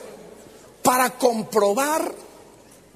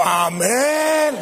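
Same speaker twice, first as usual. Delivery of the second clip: louder mock shout of amen; imitating a loud amen; 3 semitones higher than usual. Imitating a church sister's overly loud amen. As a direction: belt out the amen too hard. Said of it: "lo dijo con demasiada fuerza".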